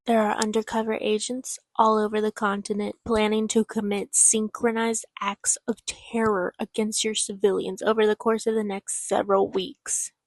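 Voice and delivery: firm, deliberate warning read aloud; dramatic book reading. Acted. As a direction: deliver a grave announcement from the story.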